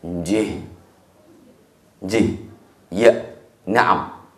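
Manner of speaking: low, soft, heavy yes; quiet one-word reply. Acted. Ibrahim answers his wife with a low, soft yes. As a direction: answer with a single hushed yes. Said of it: "Ibrahim cuman bilang satu kata".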